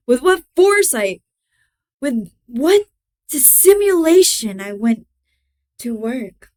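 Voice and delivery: theatrical madman's confession, swelling then hushed; dramatic story narration. A narrator's reading. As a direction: Gothic reading with pointed pauses. Reads Poe story aloud.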